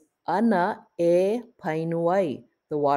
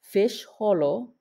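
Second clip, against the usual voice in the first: slow example; 3 semitones higher, slower than usual. Shown as a demonstration. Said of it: "We have two words for swim".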